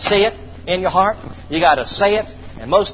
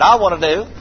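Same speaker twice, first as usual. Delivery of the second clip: firmer and louder, with conviction; say it like you mean it; 4 dB louder than usual. Shown as a demonstration. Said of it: "say it like you mean it".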